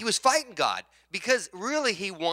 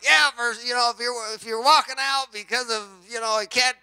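retold preacher's jab, a bit higher and louder; imitated preacher; 6 semitones higher, 5 dB louder than usual. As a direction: deliver the warning as the other preacher. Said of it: "the guy that was speaking said".

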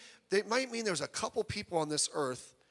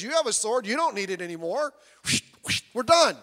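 louder, higher victory cry; triumphant; 5 semitones higher, 5 dB louder than usual. Retold or imitated. David standing on Goliath's chest shouts in triumph. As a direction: crow over the fallen giant.

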